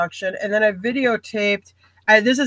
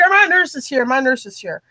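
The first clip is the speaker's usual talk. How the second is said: lightly voiced big hunter, pitched higher; higher-pitched mild imitation of a man calling out; Big Daddy; 4 semitones higher than usual. Hunter asking after his nurses, lightly imitated. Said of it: "I call this guy Big Daddy".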